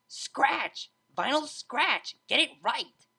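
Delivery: loud, high yell; hollering. A narrator's reading. DJ hollering at the mare who mangled her name. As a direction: snap the correction across the room. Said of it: "hollered the D J".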